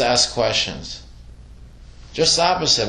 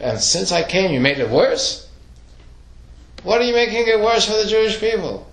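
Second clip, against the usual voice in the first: rising into a high, fast, exasperated cry; Moshe's indignant protest; 8 semitones higher than usual. Retold or imitated. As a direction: Moshe pouring out his frustration at God, climbing in pitch. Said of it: "So Moshe says to God".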